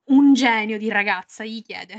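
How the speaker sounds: sarcastic mock reading; mocking quote. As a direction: poke fun at the question as you quote it. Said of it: "gli americani dicono".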